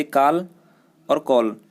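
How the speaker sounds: काल with open aa, then कॉल with rounded aw; काल vs कॉल demo. Shown as a demonstration. Teacher contrasts काल and कॉल for the class. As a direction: set काल and कॉल side by side, vowels clearly apart. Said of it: "काल होता है समय और कॉल होता है बुलाना".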